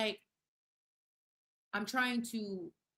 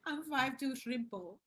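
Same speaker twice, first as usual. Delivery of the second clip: playful, slightly higher read-out; oddly read chat message; 4 semitones higher than usual. Real, not acted. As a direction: read out a chat line in a quirky way. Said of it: "Why did I read it like that?".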